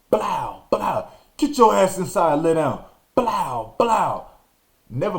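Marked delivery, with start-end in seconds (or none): 1.4-2.8 angry father. Retold or imitated. Father orders during whooping.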